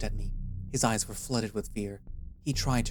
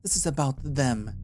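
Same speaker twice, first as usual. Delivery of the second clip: higher, louder dismissive tone; scoffing; 4 semitones higher, 3 dB louder than usual. A narrator's reading. Zahan scoffs at Tarki, turning to Aya. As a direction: brush the badger aside with contempt. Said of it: "Zahan scoffed at Tarki".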